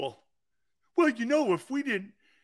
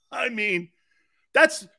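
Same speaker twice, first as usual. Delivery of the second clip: cracking up. Real, not acted. Cracking up at his own joke, squeaking laugh. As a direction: lose it laughing.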